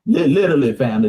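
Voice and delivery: mock stammered slang. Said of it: "That's how we be talking".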